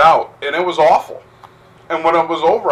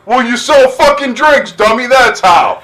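mock scolding; 9 semitones higher, 5 dB louder than usual. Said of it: "retold reply to owner".

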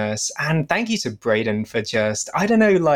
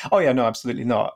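quick flat refusal; much faster than usual. Retold or imitated. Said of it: "you were like".

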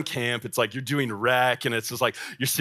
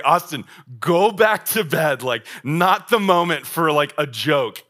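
irritated; 3 semitones higher, 5 dB louder than usual. Retold or imitated. Irritated leader woken at 1am.

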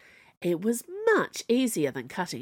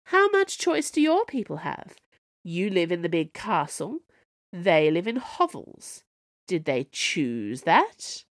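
growling. Acted. Snow Queen accusing the princess, growling. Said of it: "growled the Snow Queen".

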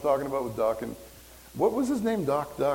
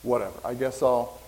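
lightly acted resignation, pitched lower; resigned self-doubt; 4 semitones lower than usual. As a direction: give up with a half-hearted "oh well". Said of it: "our own insecurities and our fears".

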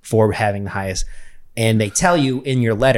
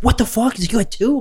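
much higher, stunned buddy; mock shocked buddy; 12 semitones higher than usual. Buddy learning he got two awards, mock shock. Buddy's surprised reaction retold.

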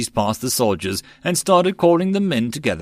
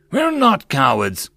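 an abrupt, slow outburst of defiance; sudden shout; 5 semitones higher, 3 dB louder, slower than usual. Acted. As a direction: burst out to defend the men. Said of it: "Talix suddenly shouted".

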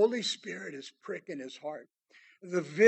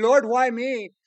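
mock ranting complaint; 5 semitones higher, 8 dB louder than usual. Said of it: "instead of ranting and raving".

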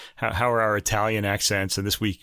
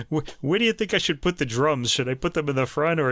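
mock questions; 4 semitones higher than usual. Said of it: "all these really stupid questions".

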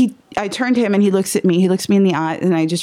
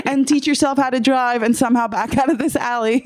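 inner voice; 6 semitones higher than usual. Retold or imitated. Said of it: "Probably the same voice that was like".

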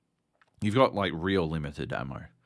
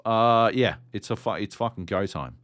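usual speaking voice

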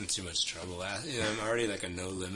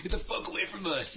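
retold yell; 12 semitones higher, 6 dB louder than usual. Yelling at cop, retold.

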